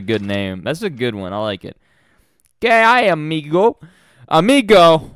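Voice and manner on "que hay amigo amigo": high, slow Spanish greeting; playful Spanish accent. Pretend. Streamer greeting a friend south of the border, Spanish accent. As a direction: draw out a high Spanish hello.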